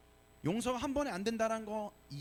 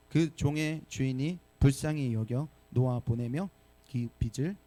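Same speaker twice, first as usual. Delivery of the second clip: slow, deliberate reading of the verse; scripture reading; 5 semitones lower, 4 dB louder than usual. Shown as a demonstration. Pastor leading the congregation's reading, slow and measured. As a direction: lead the congregation through scripture. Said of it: "같이 한번 우리 읽어보도록 하겠습니다".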